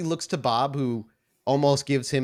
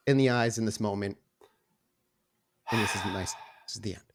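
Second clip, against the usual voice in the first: despairing Garrett; 2 semitones lower than usual. Acted. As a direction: give up as the end sinks in. Garrett resigned to death.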